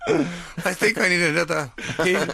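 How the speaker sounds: slow, put-on German accent as Hitler; drawn-out hammy German accent; mock German accent. The speaker joins the Hitler joke in slow mock German accent. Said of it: "doing the German accent".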